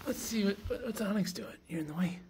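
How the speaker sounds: whispered and high, sneaking a look; hushed curious whisper. Real, not acted. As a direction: whisper so the cat isn't startled. Peeking quietly at the cat.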